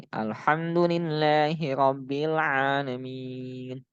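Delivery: slow recitation with long held vowels; Quran recitation. Shown as a demonstration. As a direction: recite it slowly, stretching the final syllable. Recites example for reading long vowels. (membaca Al-Qur'an pelan dengan mad panjang)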